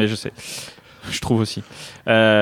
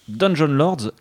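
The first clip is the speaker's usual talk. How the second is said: put-on English accent; 3 semitones higher, much slower than usual. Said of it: "cet accent magnifique".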